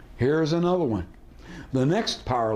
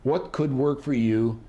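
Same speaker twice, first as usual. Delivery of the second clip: warm and fuzzy. Shown as a demonstration. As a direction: gently put question. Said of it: "sounds very warm and fuzzy".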